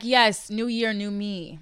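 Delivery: loud, high new-year cheer; mock hype. Hyped new year resolution quote.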